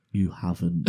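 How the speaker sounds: understated, slightly low disbelief; mock disbelief. Mum realising her son's accident, understated disbelief. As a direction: say it evenly, as a stunned mum. Mum's first reaction to accident.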